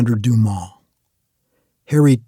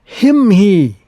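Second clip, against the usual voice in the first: mute grunt; 5 semitones higher, 5 dB louder than usual. Acted. Mute giant Harry grunting.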